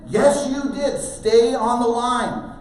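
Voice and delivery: loud, high contradiction and command; shouted insistence. Retold or imitated. Parent correcting son on the trail, shouted. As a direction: call it out firmly over the distance.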